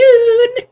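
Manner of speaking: loud, high villain cackle; evil laugh. Acted. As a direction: burst into a wicked cackle. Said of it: "That's my evil laugh".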